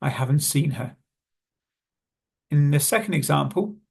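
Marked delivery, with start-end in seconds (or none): 0.0-1.0 "haven't" runs into "seen" without its t; quick, linked "haven't seen her"; dropped T. Shown as a demonstration. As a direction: leave the t off "haven't". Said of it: "you may not hear is the T sound".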